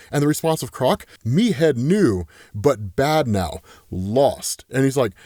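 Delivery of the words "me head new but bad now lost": a lightly voiced lost monster, slow and low; slow, lower broken English. Reviewer quoting Killer Croc's broken English, slow and low. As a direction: drag the broken words out, dropping lower. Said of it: "kind of speaking in broken English".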